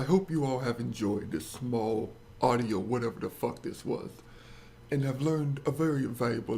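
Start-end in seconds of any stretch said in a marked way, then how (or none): none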